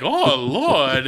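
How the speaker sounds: loud, breathy fainting Southern belle; Southern belle swoon. Retold or imitated. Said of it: "I'm not a Southern belle".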